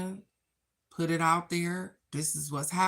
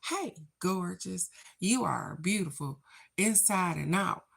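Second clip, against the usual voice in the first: mirror pep talk. Shown as a demonstration. Viewer talking to herself in the mirror, slow tender praise. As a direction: coo it to your reflection. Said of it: "how you should tell yourself how beautiful you are".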